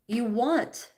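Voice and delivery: want leaned on in place of need; stress on want. Real, not acted. Correcting need to want with stress on want. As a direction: correct yourself by pressing want. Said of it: "not need".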